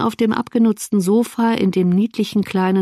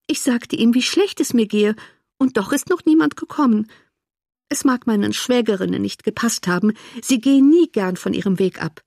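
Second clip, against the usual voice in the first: complaining invalid sister; 3 semitones higher than usual. Acted. Invalid complains that none of the in-laws visited, aggrieved. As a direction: voice the neglected sister with mild grievance.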